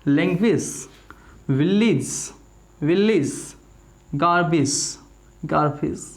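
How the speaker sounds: each word said twice with a hissed s ending; teacher leads students through a repeat-after-me drill; drill repetition. Shown as a demonstration. English teacher drilling words with a firm hissing finish. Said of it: "साथ साथ बोले मेरे".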